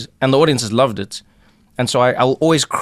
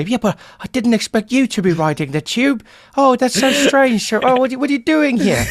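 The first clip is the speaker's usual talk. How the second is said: much higher, louder, astonished; surprised Londoners; 11 semitones higher, 3 dB louder than usual. Retold or imitated. Commuters stunned to see him on the tube, high and astonished. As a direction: gasp it like a shocked commuter. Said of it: "And you're like".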